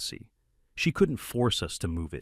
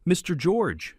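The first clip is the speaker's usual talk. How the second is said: high, pleading victim voice; victim mode; 10 semitones higher, 4 dB louder, slower than usual. A narrator's reading. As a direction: play the wounded victim. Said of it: "snapped into victim mode".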